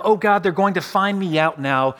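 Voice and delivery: mild worried outburst, quickened by dread; anxious thought. Acted. Preacher voicing an imagined fear of exposure, anxious. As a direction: voice a touch of alarm.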